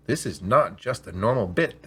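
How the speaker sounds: slow, deliberate sales voice; an AI hawking a bit as precious; salesman pitch. Acted. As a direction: lean into the pitch like a showroom seller.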